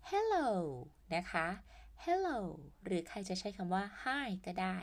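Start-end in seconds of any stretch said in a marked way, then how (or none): 0.1-0.5 high, loud hello, modelled; bright greeting. Shown as a demonstration. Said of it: "สวัสดี ก็คือคำว่า". 2.0-2.4 high, loud hello, modelled; bright greeting. Shown as a demonstration. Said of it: "สวัสดี ก็คือคำว่า".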